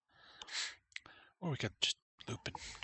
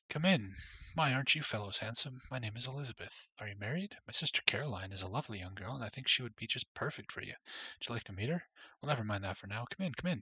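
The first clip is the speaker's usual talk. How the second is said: gushing chatty woman; faster than usual. Acted. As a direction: rattle it off like an eager matchmaker. Voices chatty woman Elizabeth.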